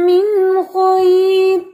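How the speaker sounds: खैर with a thick, back-of-throat kh; heavy khaa. Shown as a demonstration. Teacher shows heavy kh in खैर. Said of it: "खा heavy".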